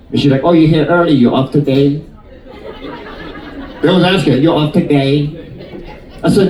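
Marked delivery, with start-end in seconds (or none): 0.4-2.0 put-on nail lady in a Chinese accent; lightly put-on Chinese accent; imitated Chinese accent. Nail lady greeting an early client, imitated Chinese accent. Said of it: "That's her accent". 4.3-5.3 put-on nail lady in a Chinese accent; lightly put-on Chinese accent; imitated Chinese accent. Nail lady greeting an early client, imitated Chinese accent. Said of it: "That's her accent".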